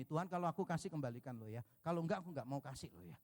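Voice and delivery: mock bargaining prayer. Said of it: "masih ngomong gini".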